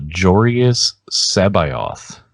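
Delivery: JORIUS SABAOTH drawn out slowly, JOR-ee-us SAB-eye-oth; slow, careful "Jorius Sabaoth" with every syllable sounded; audiobook pronunciation. Retold or imitated. Host quoting the audiobook's name for him, JOR-ee-us SAB-eye-oth pronunciation. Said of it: "they call him".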